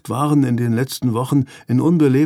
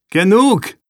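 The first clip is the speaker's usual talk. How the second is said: louder, high-pitched cry to stop; sharp call; 9 semitones higher, 6 dB louder than usual. A narrator's reading. Older brother breaking up the boys' fight, calling out. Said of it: "rief er".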